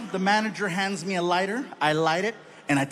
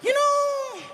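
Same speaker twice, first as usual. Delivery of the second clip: mock wise dad. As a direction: announce it in a hammed-up dad voice. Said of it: "high mock wise voice".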